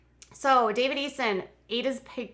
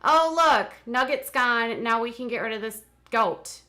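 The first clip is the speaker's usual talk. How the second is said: mocking taunt; 6 dB louder than usual. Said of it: "he wants to taunt people".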